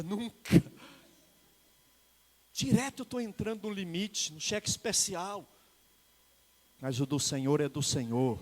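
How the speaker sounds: usual speaking voice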